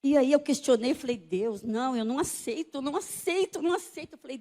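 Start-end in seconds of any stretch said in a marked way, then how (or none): 1.2-4.1 desperate refusal. Retold or imitated. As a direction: refuse it with mounting insistence. Retelling her desperate protest to God.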